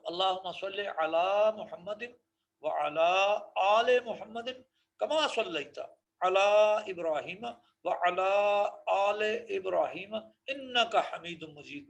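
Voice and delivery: slow, measured Arabic recitation. Shown as a demonstration. Teacher reciting the whole durood as a model. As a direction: recite it through calmly and clearly.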